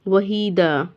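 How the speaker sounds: वहीदा finished on "daa", no n; long ee, open final vowel in वहीदा; open "aa" ending. Shown as a demonstration. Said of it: "ये वहीदा होगा".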